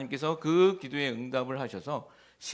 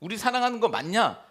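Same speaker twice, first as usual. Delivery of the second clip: demanding reproach; 4 dB louder than usual. Retold or imitated. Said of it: "따지고 묻는 것입니다".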